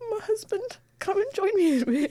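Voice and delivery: very high, tearful, weeping voice. Retelling own words to a husband from a hospital bed: imitating own past crying. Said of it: "crying and saying".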